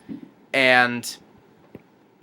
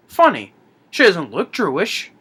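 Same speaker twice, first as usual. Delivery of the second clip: higher, swooping comic aside; John Candy; 4 semitones higher than usual. Retold or imitated. Retold sidekick turns to the camera, comically puzzled. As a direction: play the punchline with exaggerated lilt.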